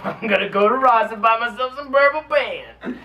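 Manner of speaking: high, loud, laughing through words; giggling excitedly. Real, not acted. Laughing while saying it.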